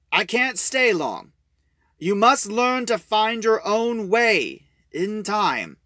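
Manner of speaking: high, loud, ringing proclamation to his people; commanding alien elder. Acted. Old alien leader tells the Triskeli the law is gone, high and loud. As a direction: boom it out as the old leader giving up his rule.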